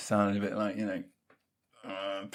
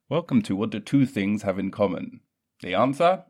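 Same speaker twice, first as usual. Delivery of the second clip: loud, brassy quiz host announcing; game show host; 6 dB louder than usual. Acted.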